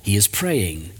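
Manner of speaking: measured, even Bible reading; scripture reading. A narrator's reading. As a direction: read the passage aloud with pauses between phrases. Reads scripture aloud.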